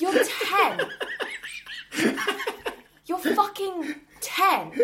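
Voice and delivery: put-on exasperated laughing rant at a kid's angst; incredulous, half-laughing outburst; laughing disbelief. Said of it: "And I'm like".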